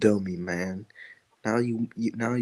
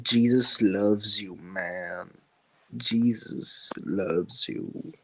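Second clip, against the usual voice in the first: slow, soft mock preacher; lightly voiced sweet evangelist, drawn out; joking evangelist; 2 semitones lower, 7 dB quieter, much slower than usual. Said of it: "a joking Evangelifish impression".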